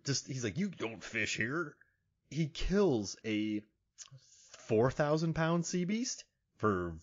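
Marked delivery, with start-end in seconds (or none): 0.6-1.8 slow, soft, grumpy sailor; lightly voiced annoyed sailor; annoyed mariner. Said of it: "an annoyed mariner".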